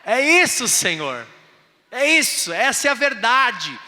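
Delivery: loud, high sermon cry; preaching. Acted. Pastor preaching to the church, loud and high. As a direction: preach it hard to the crowd.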